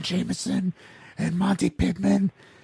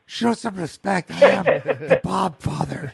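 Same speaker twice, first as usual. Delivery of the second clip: mock Godfather. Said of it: "Corleone over here".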